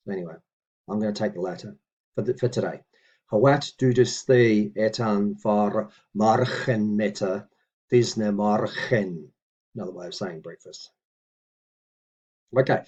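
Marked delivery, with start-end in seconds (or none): 3.3-9.3 very slow, deliberate recitation; measured teaching read; careful Old English reading. Shown as a demonstration. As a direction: draw each word out for the learner. Reads model sentence again.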